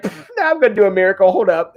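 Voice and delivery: quick, offhand brush-off; lightly voiced breezy Jesus; casual Jesus. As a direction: toss it off like it's no big deal.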